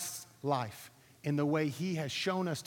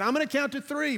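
raised voice, a mild mock shout; retold shouting instructor; 9 semitones higher, 4 dB louder than usual. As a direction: call it over the wind, half strength. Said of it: "he's screaming".

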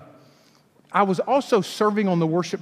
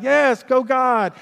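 forced enthusiasm; 3 semitones higher, much slower than usual. Retold or imitated. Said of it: "try my very best to be like".

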